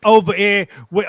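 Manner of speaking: animated, rising Cockney yarn; Cockney accent. Acted. Telling of the frying pan attack, animated Cockney accent. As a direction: spin it like an excitable Cockney. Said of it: "and a Cockney accent".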